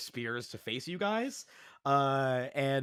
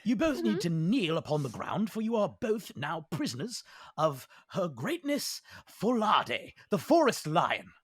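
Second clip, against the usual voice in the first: louder, higher proclamation of arrest; commanding captor; 5 semitones higher, 4 dB louder than usual. Acted. Lion-skull leader arresting the two strangers, booming command. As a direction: declare them prisoners with authority.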